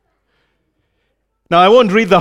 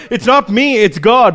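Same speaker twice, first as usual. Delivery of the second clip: mock-modest, raised "not me"; false humility; 4 semitones higher than usual. Someone deflecting praise while craving it, mock modesty. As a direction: lightly imitate outward humility. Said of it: "but on the inside thinking".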